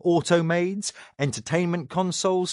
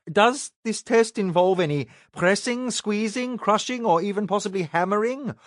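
put-on anxious young man; 7 semitones higher than usual. A narrator's reading. Robert nervously asking the giant.

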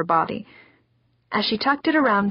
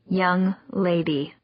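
stern mother; slower than usual. Acted. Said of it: "the way she always did".

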